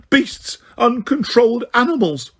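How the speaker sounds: very high shrieking insults; screaming. A narrator's reading. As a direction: shriek in panic. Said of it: "she screamed".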